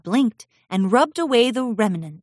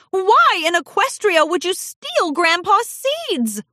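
much higher, slow scolding mother voice; 12 semitones higher, 4 dB louder than usual. Acted. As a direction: drag out each word in disbelief.

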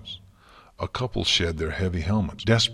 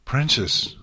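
high, loud cry of alarm; 7 semitones higher, 6 dB louder than usual. A narrator's reading. Twilight to her collapsing mentor, crying out. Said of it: "Twilight cried".

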